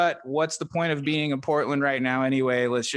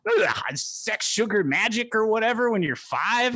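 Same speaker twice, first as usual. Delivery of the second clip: mock rant; 6 semitones higher than usual. Mock rant at a five-year-old.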